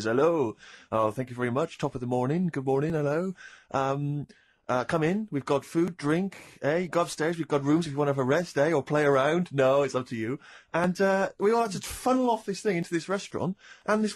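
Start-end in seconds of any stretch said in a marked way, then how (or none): 0.0-10.4 put-on a Frenchman faking an English accent, lower; lightly put-on English tourist-guide accent; French guide hamming up English for tourists; mock English accent. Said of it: "he's putting on a kind of English accent".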